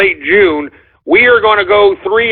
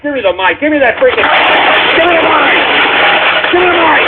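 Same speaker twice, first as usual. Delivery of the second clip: demanding; 4 semitones higher, faster than usual. Real, not acted. Host demanding the mic.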